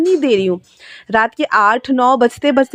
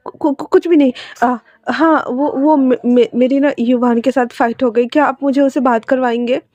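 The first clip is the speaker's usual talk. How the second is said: nervous stammer; 2 semitones higher than usual. Acted. Jinling, flustered, asks Wing for Yuvan, stammering nervously. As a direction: trip over the words in panic.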